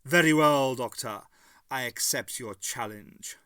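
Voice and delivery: a lightly voiced menacing creature, rising question; sly creature testing an offer; lightly voiced sly monster; time worm creature. A narrator's reading.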